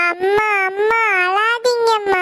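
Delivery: slow, crying while pleading; a scared child soothing her mother; tearful. Acted. Child begs her weeping mother to stop crying, tearful.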